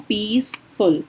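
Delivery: पीसफुल in two separate parts, पीस and फुल; split into syllables. Shown as a demonstration. Teacher confirming two syllables for students, पीसफुल split in two. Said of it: "दो syllable हो गए ना".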